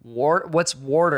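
"water" slowly mocked as WOR-ter; mocking Midwestern pronunciation. Son clowning his dad's word, mocking pronunciation. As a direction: tease with an R in "water". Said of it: "I'll clown".

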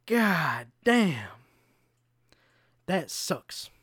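drawn-out mock lament, loud then deflated; repeated groan of dismay. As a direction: moan it like a broken record. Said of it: "I'm not even doing it justice. It was louder".

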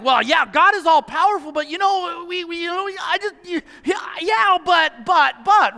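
caught-out adult stalling, voice climbing; hesitant adults. Retold or imitated. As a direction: hem and haw like a nervous grown-up. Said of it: "While the adults are like".

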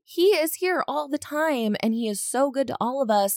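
mock-gushing like a lovestruck sister; gushing fondness. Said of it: "She's like".

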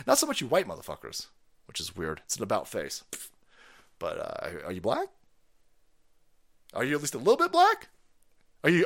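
normal talking voice

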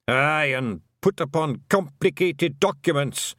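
high, slow Scottish wee man, worried; Feagle voice. A narrator's reading. A Feagle warning Tiffany about documents, high Scottish fret. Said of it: "said a Feagle".

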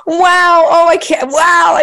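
high, gushing, mock-thrilled callers; excited callers. Friends phoning after the show, gushing excitedly. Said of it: "really happy phone calls".

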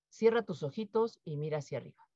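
calm guided meditation instruction; soft guiding voice. Shown as a demonstration. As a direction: ease them in gently.

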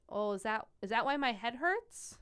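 lightly voiced child's question; young child asking. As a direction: ask like a puzzled little kid, lifting at the end. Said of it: "you tell a five-year-old that".

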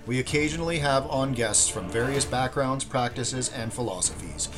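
smooth announcer read over music; podcast intro read. Acted. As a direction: read it like a show opener.

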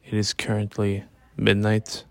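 relaxed, lying in bed; late-night talk lying down in bed. Real, not acted. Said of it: "I'm recording this in my bed".

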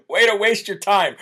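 laughing through the words; giggling while repeating it. Shown as a demonstration.

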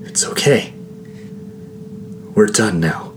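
breath-light, hushed reassurance; tender, resigned whisper. A narrator's reading. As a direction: whisper comfort to a dying friend. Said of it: "I whispered".

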